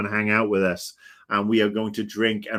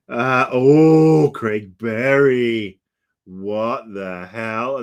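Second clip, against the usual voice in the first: surprised; 2 semitones higher, 8 dB louder, much slower than usual. Real, not acted. Surprised reading a viewer's name.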